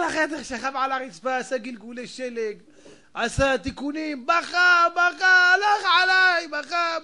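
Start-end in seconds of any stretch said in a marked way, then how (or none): 4.3-7.0 loud, high hammed-up wail; mock wailing. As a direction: cry it out like a cartoon mourner. Comic wailing in despair.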